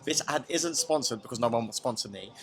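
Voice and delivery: lightly voiced chirpy British vlogger; a hint of a British beauty influencer talking to her followers; British influencer impression. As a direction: chat to the camera like a beauty influencer plugging a product. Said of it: "Shall I do one?".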